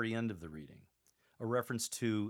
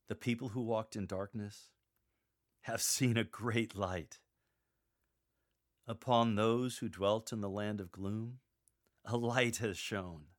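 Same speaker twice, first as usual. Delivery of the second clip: joyful reading. Shown as a demonstration. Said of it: "Use a tone of joy".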